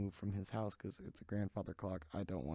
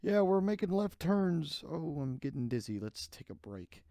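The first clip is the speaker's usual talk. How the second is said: high, slow mock driver whine; hammed-up dizzy driver voice; mocking racers; 7 semitones higher, 7 dB louder than usual. Mocking the drivers who take breaks, high and slow. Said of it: "They, like, take breaks".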